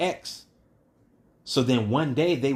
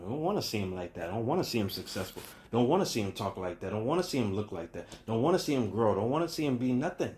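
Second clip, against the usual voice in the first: softer, fast grumbling of a jealous neighbor; begrudging crab; 5 dB quieter, faster than usual. Retold or imitated. A jealous peer resenting a man's success, soft and fast grumble. Crabs pulling a man down.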